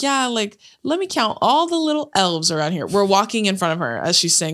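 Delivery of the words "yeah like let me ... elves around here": higher, lightly voiced store elf; mock elf patter, pitched up; toy store elf. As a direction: imitate a chirpy Christmas greeter. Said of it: "But she was like".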